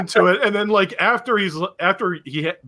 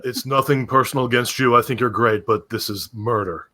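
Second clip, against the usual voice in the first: mild mock of a curt star brushing him off; lightly voiced rock star; 6 semitones lower than usual. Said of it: "he says something like".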